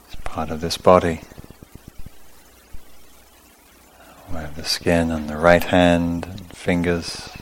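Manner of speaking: calm, unhurried meditation guidance in short phrases; guided meditation. Real, not acted. Teacher leading sitters through awareness of skin, calm guided meditation. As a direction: guide them through the body, leaving long pauses. Leads a body-scan meditation.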